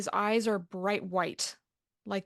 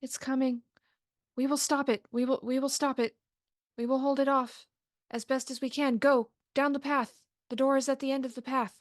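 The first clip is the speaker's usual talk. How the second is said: a touch higher creature urging them onward; lightly voiced creature; 5 semitones higher, faster than usual. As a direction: creatures holding the line, telling the party to go.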